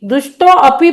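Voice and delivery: दुष्टो अपी as two words, "dushto a-pee"; unelided wrong reading. Shown as a demonstration. Teacher warning students what breaks the metre, unelided reading. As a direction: sound the "a" starting अपी. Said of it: "पढ़ेंगे तो आपकी चाल ही नहीं जमेंगी".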